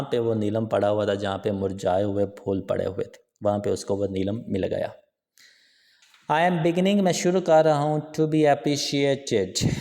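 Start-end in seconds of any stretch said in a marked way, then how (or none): 6.3-9.7 higher-pitched story quote, lifted at the start; excited cry. A narrator's reading. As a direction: read it as a mildly excited cry, drawing out the last words. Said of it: "He cried, वो चिल्लाया". (हल्के जोश भरी ऊँची पुकार)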